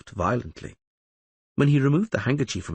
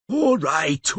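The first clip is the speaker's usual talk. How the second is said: calling out; 7 semitones higher, 3 dB louder than usual. Acted. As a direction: call toward the door, a bit louder. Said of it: "called Codringer".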